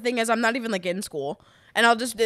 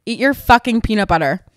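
loud, hammed-up irritated command; mock-angry order; 7 dB louder than usual. Improviser telling off a leprechaun, mock-angry and loud. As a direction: order it crossly, playing along.

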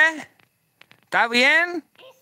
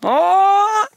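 sudden loud high shout; real shout; 10 semitones higher, 6 dB louder than usual. Real, not acted. Man shouting at Lupe as the fight escalates, loud high shout. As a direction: bark it out in alarm.

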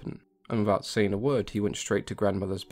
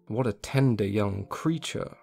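wolf thinking; slower than usual. Acted. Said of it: "The wolf thought to himself".

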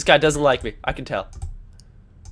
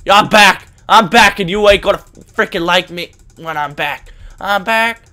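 loud taunt; 5 dB louder than usual. Real, not acted. Gamer respawns, taunting.

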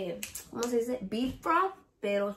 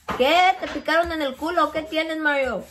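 teasing call; 5 semitones higher, 5 dB louder than usual. Real, not acted. Teasing Mario loudly.

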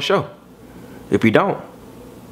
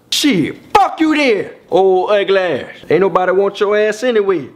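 mock angry rejected guy. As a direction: spit it out like a spurned man. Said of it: "what's the first thing that flies out of his mouth".

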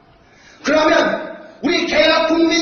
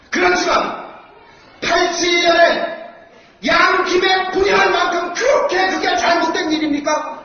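roaring rallying speech; 2 semitones higher than usual. Real, not acted. Rally speaker raising his voice.

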